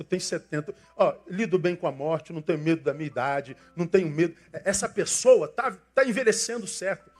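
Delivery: ordinary delivery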